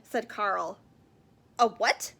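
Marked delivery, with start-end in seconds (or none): 1.6-2.1 surprised call. Acted. Brother calls back from afar.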